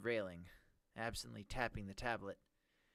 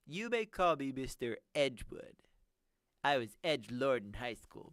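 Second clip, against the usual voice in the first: nerdy villain voice; 3 semitones higher, 6 dB louder than usual. Acted. Villain introduces himself.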